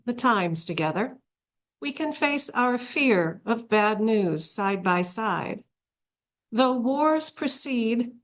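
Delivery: measured reading of a short poem; poetry reading. Acted. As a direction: read the verse with a pause after each phrase. Reads a poem aloud.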